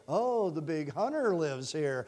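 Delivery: slow, low, softly awed visitor; mock admiration. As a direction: act out an impressed visitor, drawn out. Imagined visitor admiring the trophies.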